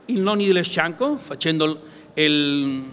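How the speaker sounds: normal talking voice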